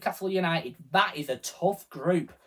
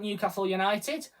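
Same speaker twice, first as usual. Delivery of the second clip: put-on Geordie accent; 4 semitones higher, 3 dB quieter than usual. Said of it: "That is my best of Juna Geordie accent".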